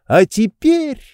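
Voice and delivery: a bright leap up high; tossed off gleefully, high; cheerful. A narrator's reading. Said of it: "весело заключил он".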